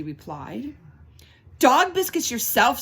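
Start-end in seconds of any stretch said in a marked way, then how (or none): 1.6-2.8 sassy retort. Acted. Lulu's retort to Fleischman.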